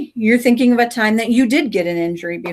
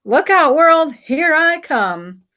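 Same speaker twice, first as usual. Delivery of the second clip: Samson's voice; 7 semitones higher, 3 dB louder than usual. Acted. Samson at the hilltop, boldly starting down. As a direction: brag like a daring rider. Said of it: "He's like".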